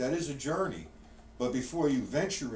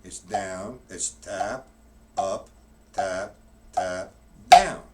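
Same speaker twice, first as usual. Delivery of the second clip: calling the strokes; 4 semitones lower, 8 dB louder, much slower than usual. Shown as a demonstration. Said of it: "now what I'm doing".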